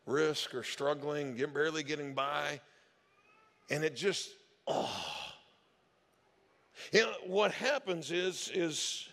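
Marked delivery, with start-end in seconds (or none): 4.7-4.9 disgusted groan. Real, not acted. Disgust at preying on the elderly.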